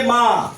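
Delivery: माँ with the vowel through nose and mouth; nasalized vowel. Shown as a demonstration. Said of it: "नाक और मुंह से होता है". (माँ का स्वर नाक और मुंह से)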